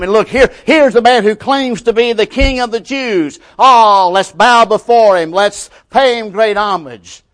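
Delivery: high-pitched taunting of a supposed king; mocking ridicule. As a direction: jeer loudly with mock homage. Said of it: "when they ridicule him".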